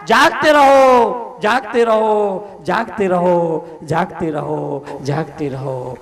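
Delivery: fading watchman call. Acted. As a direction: call it out as if walking off into the night.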